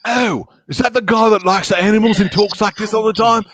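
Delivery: high, excited Australian animal-show host; high-pitched Australian enthusiasm; Steve Irwin. Acted. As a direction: gush about wildlife in an Aussie accent. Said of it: "How about Steve Irwin?".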